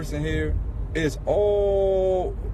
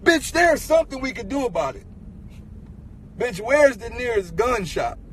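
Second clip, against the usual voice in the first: angry outburst; 4 semitones higher than usual. Retold or imitated. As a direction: cut her off, enraged. Furious retort to girlfriend.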